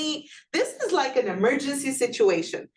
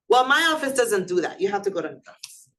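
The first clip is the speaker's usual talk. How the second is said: dismissive clerk; faster than usual. Shown as a demonstration. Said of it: "Something like".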